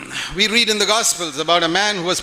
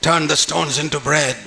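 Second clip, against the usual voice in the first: low, slow tempting suggestion; tempter's voice; 4 semitones lower, slower than usual. Acted. Demon tempting Jesus in his ear, tempter's voice. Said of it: "They even whispered in the ears of Jesus".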